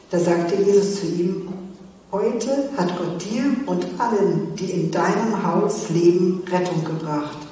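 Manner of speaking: calm storytelling read; measured scripture reading; Bible reading. Acted. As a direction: read the passage to the youth group. Reads Bible story aloud.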